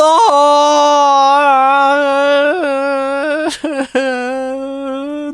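long high strained laugh of disbelief; high despairing cackle; exasperated laugh. Real, not acted. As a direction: laugh at your own blunder. After finding code.

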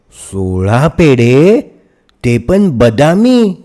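put-on little girl thrilled by sweets; delighted child. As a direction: savour each word like a treat. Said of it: "लीला एकदम खुश झाली".

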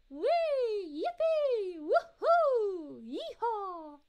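high, loud cheers of joy; excited cheering. Retold or imitated. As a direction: squeal each cheer out like a kid on a ride. Reads out cheering chat message.

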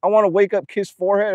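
mock imposter voice. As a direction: imitate someone who talks nothing like you. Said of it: "I don't even talk like that".

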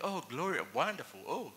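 low, soft, half-hearted praise; trying to sound happy. Retold or imitated. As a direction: imitate weary gladness put on for a friend. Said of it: "he's trying to be happy for me".

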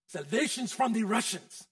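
a light mock Russian accent; a preacher's half-joking stab at a Russian accent. Preacher tries a Russian accent on the congregation, mock Russian accent. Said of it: "Does that sound like a good Russian accent?".

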